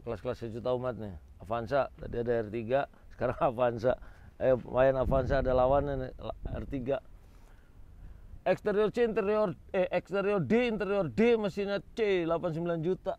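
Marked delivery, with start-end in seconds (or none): 4.4-13.1 loud, high market-stall calling; loud cheerful hawker calls. Real, not acted. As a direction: call out the prices like a hawker. Vlogger hawking cars at auction.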